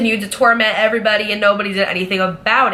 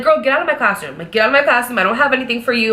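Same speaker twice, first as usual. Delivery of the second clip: playful, higher-pitched shooing; joking dismissal; 4 semitones higher, faster than usual. Retold or imitated. Teacher jokingly sending coworker out of her classroom, playful. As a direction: shoo a friend away in mock protest. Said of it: "like, a joking relationship".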